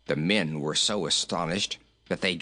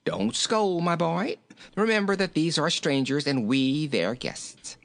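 higher-voiced king gently chiding; mildly soothing character voice; 7 semitones higher than usual. A narrator's reading. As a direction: coax a grumpy pet to behave. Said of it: "said King Rinky-Tink soothingly".

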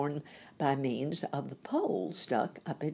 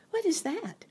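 high unvoiced whisper. A narrator's reading. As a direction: whisper it back, curious. Dorothy asks about secret.

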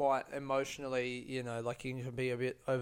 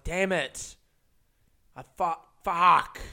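louder, drawn-out exasperated swearing; frustrated curse; 2 semitones higher, 8 dB louder, slower than usual. Retold or imitated. To himself when the bag arrives too soon, exasperated swearing. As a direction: groan out the curse in mock frustration.

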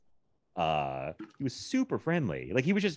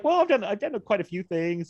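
amused retelling; 10 semitones higher than usual. Retold or imitated. Retelling actor's modest reply.

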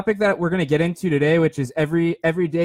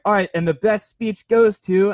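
drawn-out, higher announcer voice; award announcer; 4 semitones higher, 4 dB louder than usual. Acted. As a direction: slowly build suspense before naming the winner. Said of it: "they're calling, like, the names".

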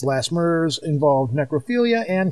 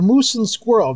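put-on Russian accent; 4 semitones higher than usual. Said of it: "the Russian voice".

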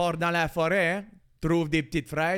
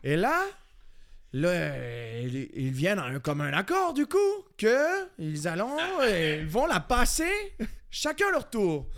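put-on accent français de France. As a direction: drag out the imitated French accent. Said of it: "j'ai chié l'autre avec l'accent français". (faux accent de France, traînant)

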